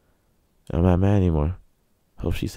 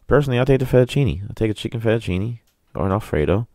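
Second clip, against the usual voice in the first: fast and higher, keen; eager; 6 semitones higher, faster than usual. Real, not acted. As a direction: rush it out like you're hungry. Eager about pasta payment.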